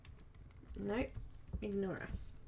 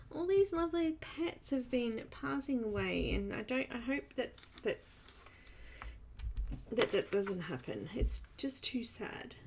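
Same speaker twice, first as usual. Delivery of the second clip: soft, faltering condolence; hushed and halting sympathy; saddened sympathy; 6 dB quieter than usual. Real, not acted. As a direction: trail off quietly, sorry for their loss. Sympathy over pets passing away.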